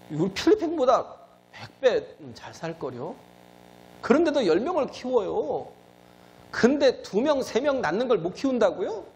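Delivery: high-pitched, insistent preaching; impassioned preaching. Real, not acted. Preacher challenging congregation over having few children, impassioned. Preacher presses an indignant argument.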